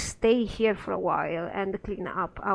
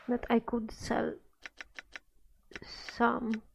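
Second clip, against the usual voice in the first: whispering. Real, not acted. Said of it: "whispering while sorting inventory".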